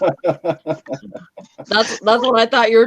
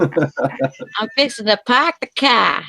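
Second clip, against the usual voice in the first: fixing to and car slowed and drawn out; slow Texas drawl; slower than usual. Pretend. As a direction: drawl it out slowly like a Texan. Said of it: "you did it with an accent".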